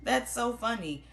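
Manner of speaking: high, slow, sugary fake laugh-talk; hammed-up phony amusement; fake amused. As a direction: play along with a joke you don't find funny. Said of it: "someone who is acting like".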